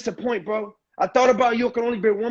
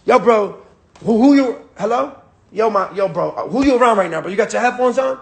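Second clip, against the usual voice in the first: hyped urgent call. Shown as a demonstration. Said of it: "I'm gonna just say".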